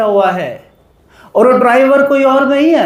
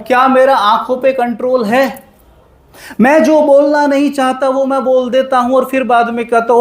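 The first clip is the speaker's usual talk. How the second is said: ordinary talk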